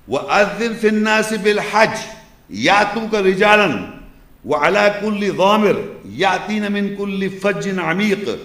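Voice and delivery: measured, sustained Arabic recitation; Quran recitation. Acted. Lecturer quoting Surah al-Hajj to listeners, formal recitation. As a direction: recite the verse phrase by phrase, with pauses.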